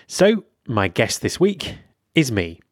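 scripted intro with lively, lifted phrase openings; podcast host intro. Acted. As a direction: present the episode to your listeners in measured phrases.

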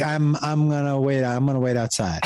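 "I'm, I'm gonna wait", haltingly repeated; lightly imitated nervous stutter, restarting on "I'm". Tutor excusing himself to wait outside, stuttering "I'm, I'm". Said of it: "he started to stutter".

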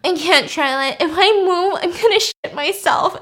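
tearful whine. Retold or imitated. Lizzie refusing to move on the bus, tearful whine. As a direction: whine as if close to tears. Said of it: "And she's, like, crying".

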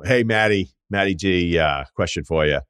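lightly imitated Boston accent, casual call to a guest; put-on Boston accent. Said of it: "I did it in the accent".

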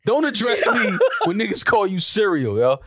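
high-pitched comic indignation; mock outrage. Real, not acted. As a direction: scold the caller in exaggerated disbelief. Mock outrage at caller's nickname.

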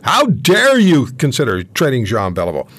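mildly indignant, retold outrage. Teenage fan scolding the manager by letter, mildly indignant. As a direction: quote an outraged letter with punch on the opening words. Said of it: "I write this indignant letter".

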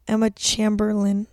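"Chamberlain" with a short a, as in "champ"; others' pronunciation. Shown as a demonstration. Host imitating how people say her name, "Chamberlain" with short a. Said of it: "way that people say it".

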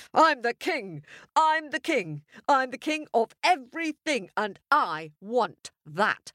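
roaring king. Acted. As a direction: demand it like a petulant monarch. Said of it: "he roared".

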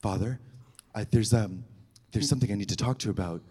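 hushed plea. Retold or imitated. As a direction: murmur it to the priest. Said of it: "I was like".

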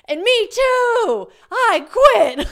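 loud, high excited squeal, stretched out; shouting along with joy, slowly; elated. Retold or imitated. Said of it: "I was getting, like, elated".

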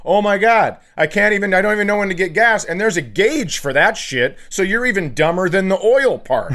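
ranting at the car's dashboard in a panic; exasperated rant. Retold or imitated. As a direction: rattle it off in disbelief at yourself. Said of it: "and I go".

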